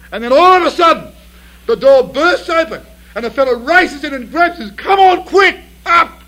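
high, loud and urgent; building excitement. A narrator's reading. Preacher acting out Joseph's rescue, loud and urgent. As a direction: burst in like the door flying open.

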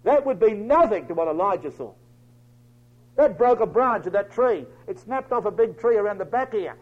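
normal talking voice

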